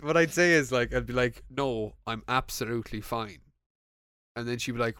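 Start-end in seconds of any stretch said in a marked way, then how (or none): 1.5-3.4 sounding off. Acted. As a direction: say you're fine, a bit too subdued. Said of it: "Well, you sound off".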